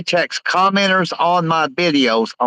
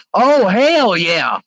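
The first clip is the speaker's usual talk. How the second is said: slow drawn-out Scott impression, higher and louder; imitating Scott; 6 semitones higher, 3 dB louder, much slower than usual. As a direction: stretch it out like Scott cheering. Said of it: "Scott would say".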